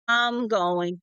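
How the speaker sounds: light Southern "ahm" for "I'm"; Southern accent. Acted. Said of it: "like, A H M".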